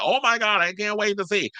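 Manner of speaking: high, gushing fake thrill; mock excitement. Vlogger mocking fans eager for Portia's return, gushing high. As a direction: pretend to be dying to see it.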